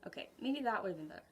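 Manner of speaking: quick whispered aside to herself; rushed self-correcting whisper; muttered aside. Real, not acted. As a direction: whisper it fast under your breath. Muttered aside after a mistake.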